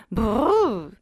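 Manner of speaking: brrr. A narrator's reading. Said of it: "fit le duc".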